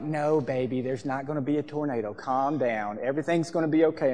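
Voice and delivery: softly soothing, imitating a mother; gently calm a frightened child; reassuring mom. Mom calming a crying child, softly reassuring.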